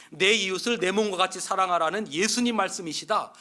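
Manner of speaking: loud, firm lecture falling on 예수님; tough inmate. Acted. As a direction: hammer it home like a jail boss.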